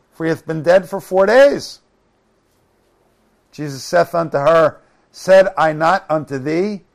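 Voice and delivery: firm, emphatic verse reading; scripture reading. Acted. Preacher reads of Jesus at the grave, emphatic scripture reading. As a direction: read the Bible story out to the room.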